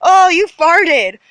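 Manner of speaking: mocking taunt. Tormentor mocking her over a fart, slow taunt. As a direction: sneer it out slowly like a tormentor. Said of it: "he says".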